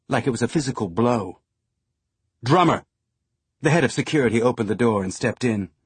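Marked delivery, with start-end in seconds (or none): 2.4-2.8 calling out. Acted. Fred calls security in.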